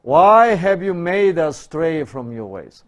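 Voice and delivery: mock-prophetic loud lament; pleading prophet. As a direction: cry out to God in complaint. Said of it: "Isaiah is pleading to God".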